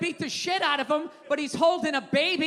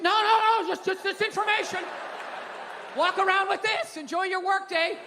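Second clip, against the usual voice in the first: mock newscaster; 5 semitones higher than usual. News answering viewers with no solution, higher and brighter. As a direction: toss it off like a cheery anchor.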